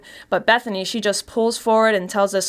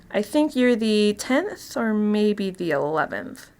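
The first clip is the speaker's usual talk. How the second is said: sinister reveal. Acted. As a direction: savour the confession to the captive. Narrator reveals herself, addresses victim.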